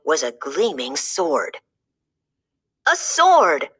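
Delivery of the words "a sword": excited discovery. A narrator's reading. Wart finds the sword.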